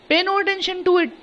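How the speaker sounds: mock roar. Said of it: "my uncle Khosrow roared।".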